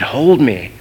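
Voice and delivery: emphatic, punched plea to be held; pleading toddler. Retold or imitated. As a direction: imitate a child begging his dad. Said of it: "He said".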